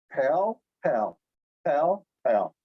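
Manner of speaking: pal, pal, pal, pal, each p done differently; Korean p sounds. Shown as a demonstration. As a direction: run through the Korean p variants. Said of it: "trying to make them sound like all P's".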